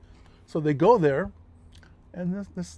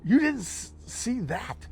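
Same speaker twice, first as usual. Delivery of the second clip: high disbelieving push; you really missed that?; incredulous; 7 semitones higher, slower than usual. Retold or imitated. Pressing his buddy Lewis in high-pitched disbelief. Insisting buddy must have seen.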